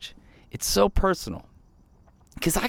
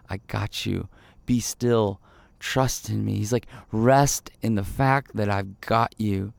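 tender reassurance; 4 semitones lower than usual. Pretend. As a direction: hush a frightened child gently. God comforting like a parent.

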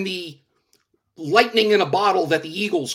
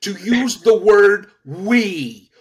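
louder, forceful shout; 6 dB louder than usual. Real, not acted. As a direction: shout him down, word by word. On-air argument over "we.

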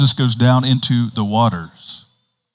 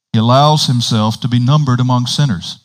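flowing reading in one phrase; straight read-through. Real, not acted. Preacher rereading the passage without commentary, straight read-through. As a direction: carry the sentence through without breaks. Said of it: "read it again without the commentary".

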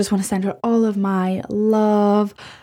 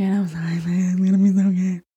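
whispered aside; 2 semitones lower than usual. Real, not acted. Podcaster whispers a quick apology to listeners. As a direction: whisper it under your breath.

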